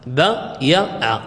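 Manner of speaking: بايع drawn out very slowly, each sound clear; teacher stretching بايع to show its root form; slow demo pronunciation. Shown as a demonstration. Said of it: "أصله بايع".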